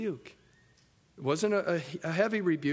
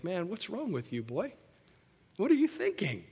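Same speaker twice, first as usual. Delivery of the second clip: exasperated; 3 semitones higher than usual. Retold or imitated. Preacher imitating people scolding Peter, exasperated. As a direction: scold Peter like a fed-up onlooker.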